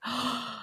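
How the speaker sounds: soft, awed intake of breath; admiring gasp. Retold or imitated. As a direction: gasp softly, as if starstruck. Acting Tracy's delighted arrival.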